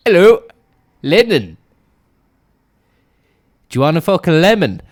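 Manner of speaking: loud mocking yell, fast at the end; crackpot yelling. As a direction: bark it at him like a street lunatic. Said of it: "and is like".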